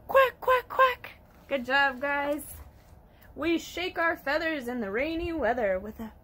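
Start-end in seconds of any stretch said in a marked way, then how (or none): 0.1-1.1 high, loud duck quacks; happy duck quacking. Acted. Ducky showing children how happy sounds, high quacking. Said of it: "When I'm feeling happy, I say".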